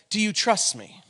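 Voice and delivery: softly voiced, searching question; gentle retold question. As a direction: ask it softly and intimately. Retells God's question to him.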